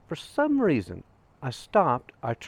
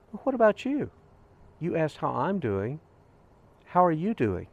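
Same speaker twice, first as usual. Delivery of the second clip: higher-pitched, turning the question back; retold concerned question; 6 semitones higher than usual. Hiker asks the stranger in return, concerned question. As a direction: lift the voice to ask after them.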